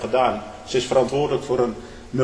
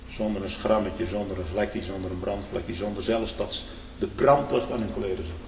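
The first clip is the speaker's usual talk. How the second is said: hushed awe; 5 semitones lower, 6 dB quieter than usual. Acted. Building list of miracle details.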